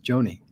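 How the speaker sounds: "Joni" said like Johnny; "Joni", rhyming with Bonnie; name pronunciation. Shown as a demonstration. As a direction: say "Joni" with an ah, as in John. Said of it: "That's the way she pronounced it".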